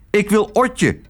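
high-pitched insistent cry; calling out. A narrator's reading. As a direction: cry out the demand. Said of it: "riep Tos".

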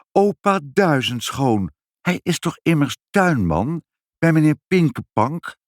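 dismayed sympathy, stretching the name; pitying. A narrator's reading. Mother wonders about the sleeping gardener, with high-pitched pity. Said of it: "zei moeder medelijdend".

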